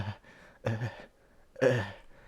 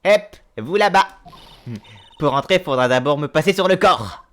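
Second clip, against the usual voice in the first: gruff guard shouting; 2 semitones higher, 6 dB louder than usual. Acted. Security guard blocking the entrance.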